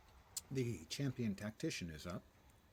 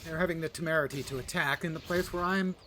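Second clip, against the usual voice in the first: dark lord; 5 semitones higher, 5 dB louder than usual. Pretend. Streamer mock-villain rant in game.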